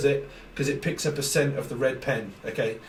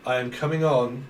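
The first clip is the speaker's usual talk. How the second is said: acted take; 2 semitones lower than usual. Shown as a demonstration. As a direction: deliver it like an actor on action. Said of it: "one, and action".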